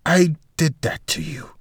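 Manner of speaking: a hushed admission; whispered confession. Acted. Walter admits hitting Aloysia, whispered.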